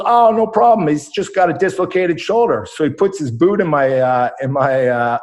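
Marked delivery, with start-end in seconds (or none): 0.0-2.7 breezy doctor. Retold or imitated. Doc dismissing the broken shoulder, breezy and cheery. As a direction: brush it off like it's nothing. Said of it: "and the doc goes".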